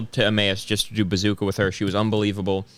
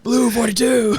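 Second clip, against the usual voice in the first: high call broken by laughter; laughing; 13 semitones higher, 4 dB louder than usual. Pretend. Repeating the joke call while laughing.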